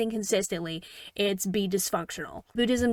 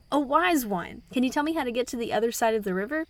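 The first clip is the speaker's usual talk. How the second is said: higher-pitched call to a teacher; mild mock yell; 4 semitones higher than usual. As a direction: call over a river, half-hearted shout. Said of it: "yells over to the teacher".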